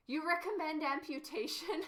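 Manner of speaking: laughing through the question; amused disbelief, chuckling as you read it out. Real, not acted. Streamer reading a viewer's amputation advice, laughing.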